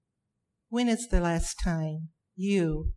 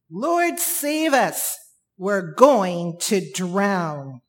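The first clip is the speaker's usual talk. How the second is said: slow pleading cry; 5 dB louder, much slower than usual. Acted. Repeating the disciples' plea.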